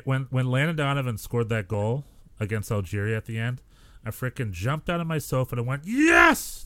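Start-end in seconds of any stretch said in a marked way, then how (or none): 5.9-6.6 high, loud, jubilant yell; ecstatic shout. Retold or imitated. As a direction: shout it as the winning goal goes in. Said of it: "like, screaming at my ass".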